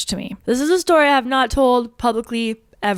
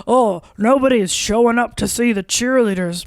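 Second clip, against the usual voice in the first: mocking argument; 3 dB louder than usual. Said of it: "there's the argument of".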